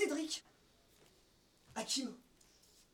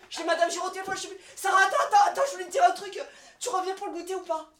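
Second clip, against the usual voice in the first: frazzled manager; 4 dB louder than usual. Acted. Frazzled boss on phone sketch.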